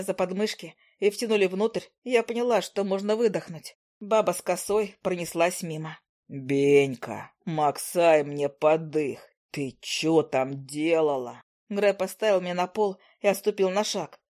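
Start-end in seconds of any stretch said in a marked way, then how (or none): 6.3-11.4 low, slow man's voice, amused; a hulking man's lazy drawl; low slow burly man, puzzled; gruff big man. A narrator's reading.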